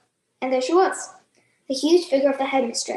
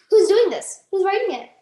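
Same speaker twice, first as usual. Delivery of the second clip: higher, louder furious demand; yelling; 6 semitones higher, 5 dB louder than usual. Acted. Headmistress yells at the class to find the culprit, bellowing. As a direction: bellow at the whole room. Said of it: "then yelled at nobody".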